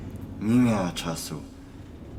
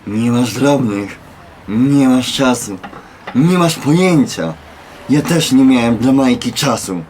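bitter retort; 6 dB louder than usual. Acted. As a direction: throw her excuses back at her. Bitter retort to woman's excuse.

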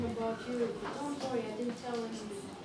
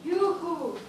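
calling out; 5 semitones higher, 8 dB louder than usual. Acted. Tree calling out in the dark.

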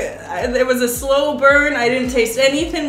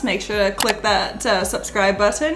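struggling to talk with a swollen tongue; thick-tongued, words hard to get out; 2 semitones lower than usual. Real, not acted. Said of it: "I think my tongue is swelling up".

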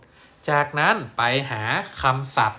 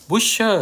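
"butcher" drawn out very slowly, rising and louder; teacher stresses "butcher" before translating it; emphasised model word; 10 semitones higher, 7 dB louder than usual. Shown as a demonstration. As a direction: stretch "butcher" out loud for the class. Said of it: "ตรงเนี้ยคือคำว่า".

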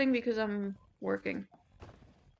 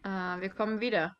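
in German; 3 semitones lower than usual. Shown as a demonstration. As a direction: say it in German, shyly. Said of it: "say we'll be back in German".

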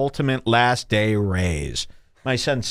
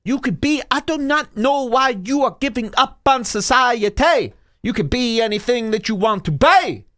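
high, mocking do-gooder voice; mock goody-two-shoes; 10 semitones higher than usual. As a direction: chirp it like a preachy do-gooder. Mocking goody two-shoe people.

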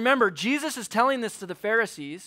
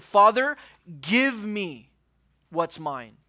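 demanding; much slower than usual. Acted. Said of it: "he demanded".

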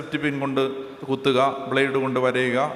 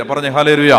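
loud call for response; 2 semitones lower, 6 dB louder than usual. Real, not acted. Preacher calls congregation response.

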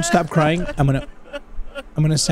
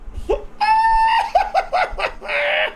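high laugh. Real, not acted. Loud wordless sound at the game.

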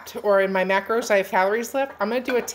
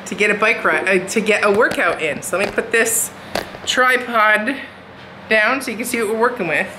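over leaf blower; 4 dB louder than usual. Real, not acted. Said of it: "sorry about the blower in the background".

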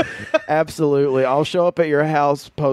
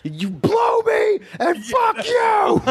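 drawn-out Mel Gibson shout, much higher; Mel Gibson impression; much slower than usual. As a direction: yell it slow like Mel Gibson. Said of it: "Mel Gibson talk".

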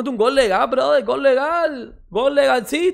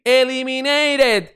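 drawn-out mock; 2 semitones higher, much slower than usual. Real, not acted. Mocking eliminated rival.

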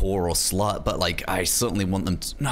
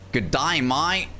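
slightly higher-pitched Australian greeting; Australian accent; 4 semitones higher, much slower than usual. Shown as a demonstration. Answering friend's request for an Australian accent, Australian greeting. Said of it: "an Australian accent".

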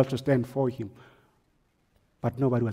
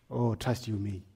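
quiet aside; 4 semitones lower, 8 dB quieter than usual. Real, not acted.

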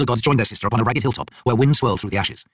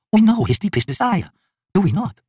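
higher, resolute god voice; a god set on bearing the scar, pitched up; elder god Krull; 11 semitones higher, 3 dB louder than usual. A narrator's reading. Krull refuses another way, resolute and higher.

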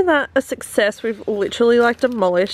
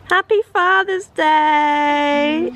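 cheerful greeting; 5 semitones higher, 3 dB louder, much slower than usual. Real, not acted. Greeting Dad with gift.

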